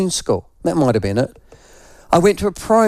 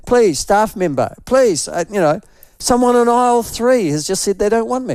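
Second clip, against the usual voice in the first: higher pleading mock woman; hammed-up plea for staff help; imitating her panicked plea; 6 semitones higher than usual. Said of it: "imitating fleeing woman".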